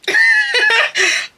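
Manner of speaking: loud squealing laugh; high shrieking laugh. Real, not acted. Laughing at her own squirrel story, high shriek.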